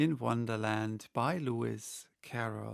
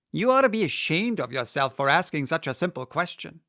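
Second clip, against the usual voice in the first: fast, louder, scolding griffin; 3 semitones higher, 6 dB louder, faster than usual. Acted. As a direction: tell her off for the simple question. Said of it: "added the griffin".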